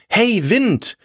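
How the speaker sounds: high-pitched call to someone passing. A narrator's reading. Tailor calls to the passing wind, high hail. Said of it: "rief der Schneider".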